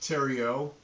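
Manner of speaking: Theriot said slowly and clearly as the French name; Theriot, said the way he wants it said; name pronounced. Shown as a demonstration. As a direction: spell out the sound of Theriot carefully. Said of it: "my last name is pronounced".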